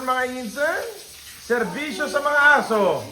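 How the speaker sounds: usual speaking voice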